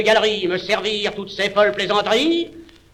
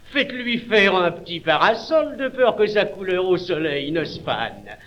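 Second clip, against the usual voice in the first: tender. Acted.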